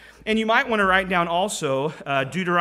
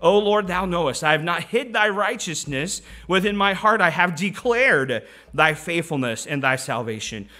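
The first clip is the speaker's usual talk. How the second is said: scripture proclaimed in a raised voice; projecting; 4 dB louder than usual. Acted. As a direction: declare it out to a congregation. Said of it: "he's projecting, uh, the goodness of God".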